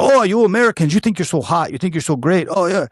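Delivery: high-pitched mock outburst; imitated losing it. Canadian opponent losing it at Americans, mock indignant rant. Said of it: "my man lost it".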